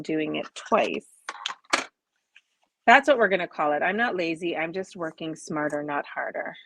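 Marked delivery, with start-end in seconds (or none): 4.6-6.5 softer, self-amused aside; softer muttered mantra. Shown as a demonstration. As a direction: repeat the motto softer, half to yourself. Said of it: "My mantra".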